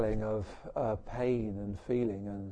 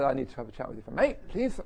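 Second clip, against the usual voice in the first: rushed request, voice leaping up on "please"; imitating that tense "can we talk" tone; loaded request; faster than usual. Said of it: "You know that way".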